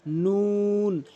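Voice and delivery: নুন drawn out with rounded lips; nun demo. Shown as a demonstration. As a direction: round the mouth and stretch নুন. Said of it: "মুখটা গোলাকার করে". (নুন মুখ গোলাকার করে টেনে)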